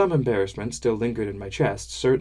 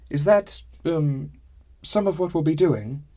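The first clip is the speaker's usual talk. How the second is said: eager; 6 semitones higher, 3 dB louder than usual. Acted. Eager question to Gilly.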